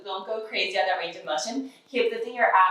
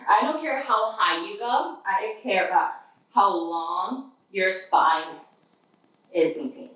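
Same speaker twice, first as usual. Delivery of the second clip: talking into the floor, muffled; face down on the floor. Real, not acted. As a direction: speak lying face down. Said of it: "even though I'm talking to the floor".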